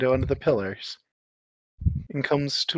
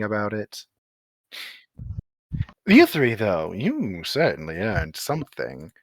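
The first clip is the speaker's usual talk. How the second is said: lightly voiced ancient elemental; 3 semitones lower than usual. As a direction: weigh each word like an ancient being. GM holds Ancient One voice.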